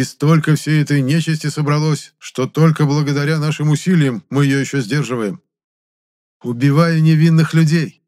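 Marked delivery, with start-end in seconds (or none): 6.4-8.0 wry smirk. A narrator's reading. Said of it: "криво усмехнулся я".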